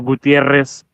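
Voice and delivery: Gutierrez with a trilled double R; rolled R's. Shown as a demonstration. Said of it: "It's another one".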